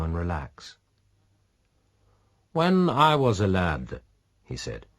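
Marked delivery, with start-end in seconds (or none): 2.5-4.0 a hint of a fond pirate; slow, raised man's voice; lightly voiced man, remembering. A narrator's reading. Pirate reminisces.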